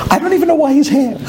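quick words breaking into laughter; laughing at himself. Real, not acted. Rabbi admits to the audience he cried, laughing. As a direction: laugh through it at your own tears.

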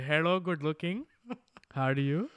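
put-on mild Indian accent flirting; lightly done Indian accent. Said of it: "would've done the Indian accent".

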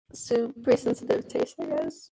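glitchy robotic mic distortion. Real, not acted. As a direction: voice breaking into glitchy pitch jumps. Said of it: "Oh, you sound like a robot".

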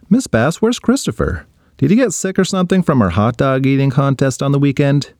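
lightly voiced curious boy; a boy asking his teacher, curious; kid Ryan.

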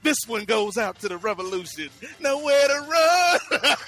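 hammed-up DJ sign-off; drawn-out radio host line. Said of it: "a transistor radio, and I'll be broadcasting".

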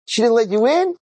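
high-pitched incredulous question; retold disbelief. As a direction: imitate a baffled, high-voiced reaction. Retold disbelief at failed trick.

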